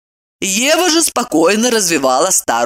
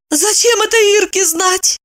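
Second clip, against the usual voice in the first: horrified. A narrator's reading. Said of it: "пришла в ужас".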